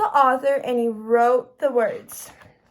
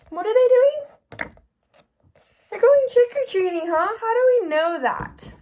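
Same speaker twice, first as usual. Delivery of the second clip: excited question; 8 semitones higher, 3 dB louder than usual. Real, not acted. Teacher quizzing kindergarten class.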